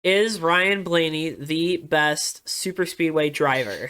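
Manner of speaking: measured, word-by-word reading; slow, deliberate title read. Shown as a demonstration. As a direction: spell out the title slowly as if counting words. Rereads shortened title, word by word.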